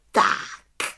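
contented little witch; pleased exclamation; satisfied call. Acted. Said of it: "spokojeně zvolala malá čarodějnice".

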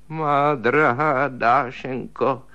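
slow, groaning plea; drawn-out mournful "Má drahá Dášenko"; moaning. Acted. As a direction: moan her name like a dying man. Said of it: "zasténal Stryžin".

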